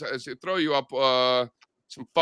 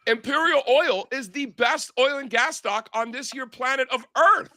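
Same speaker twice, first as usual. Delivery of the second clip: slow, much higher, hammed-up big declaration; grand proclamation; 9 semitones higher than usual. Bragging to Catherine about his stock pick, slow hammed-up proclamation. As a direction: announce it like a carnival barker. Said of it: "I'm like".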